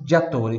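diatore with GG said as "dja"; Italian double G. Shown as a demonstration. Teacher breaks down the long word, diatore with a "dj" onset. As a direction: say diatore starting on a "dj" sound. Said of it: "com dois Gs".

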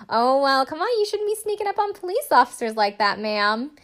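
mock scolding officer. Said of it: "he's like".

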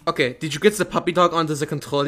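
put-on German accent, briskly. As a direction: ask in a mock German accent. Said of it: "my German accent sounds better".

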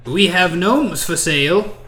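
slow, deliberate slave trader; slaver character. Acted. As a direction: play a slaver pointing out his wares. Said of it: "they kinda lean over and they say".

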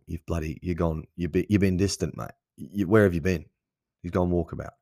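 lightly put-on Australian accent; Aussie accent. Host explaining walkabout slang to listeners, light Aussie accent. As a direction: slip into a mild Aussie twang. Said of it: "I love bringing out the Aussie accent".

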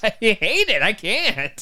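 high, loud giggly protest; laughing exasperation. Real, not acted. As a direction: protest helplessly through laughter. Laughing rant about the hats.

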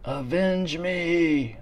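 slow, strained dying plea; overacted death scene. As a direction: groan it out like a dying king. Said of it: "like in fucking Red Dawn".

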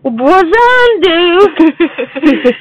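high, slow goofy nerd voice; hammed-up Sheldon voice; Sheldon impression. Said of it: "give me a character. Schmeldon".

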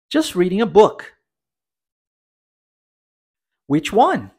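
language teacher reading a dialogue, line by line with long pauses; dialogue read-aloud. Shown as a demonstration. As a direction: read each line clearly, leaving room to repeat. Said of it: "dê umas pequenas pausas pra que a gente consiga repetir". (leitura de diálogo com pausas para repetir)

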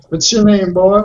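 lightly voiced slave-master parody; mock-demanding overseer; Roots overseer. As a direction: play at being the overseer. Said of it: "are you doing a Roots reference?".

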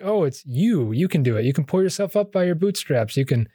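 propaganda voice. Retold or imitated. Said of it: "propaganda where it's all like".

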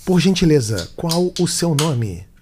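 slow, measured machine announcement. Retold or imitated. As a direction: speak like a parking ticket machine. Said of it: "eu fazia a voz da máquina".

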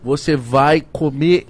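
upbeat sponsor pitch; ad read. Acted. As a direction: sell it like a host ad read. Reads sponsor ads. (leitura de publicidade animada)

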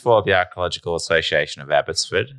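talking through laughter; chuckling through the words; laughing. Real, not acted. Explaining while laughing.

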